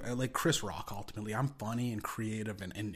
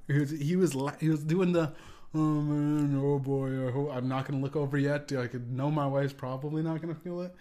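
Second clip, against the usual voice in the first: stifled laughter; 3 semitones higher, 5 dB louder than usual. Retold or imitated. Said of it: "when you lick the teeth".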